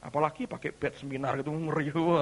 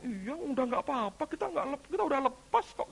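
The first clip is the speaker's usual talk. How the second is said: placating devil; 12 semitones higher than usual. Acted. Devil claiming he has already let go, placating.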